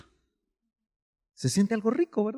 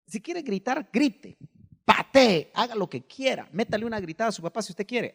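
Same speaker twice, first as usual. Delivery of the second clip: psychologists' advice; 7 semitones higher than usual. Retold or imitated. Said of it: "Ellos dicen".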